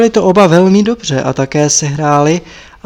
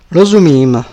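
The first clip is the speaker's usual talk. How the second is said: called out from upstairs; a short call from the upper floor; 6 dB louder than usual. Acted. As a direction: call the answer down to her.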